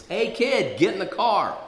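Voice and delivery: acted-out shouted summons; calling out. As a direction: holler it from a car window. Man calls to him from car.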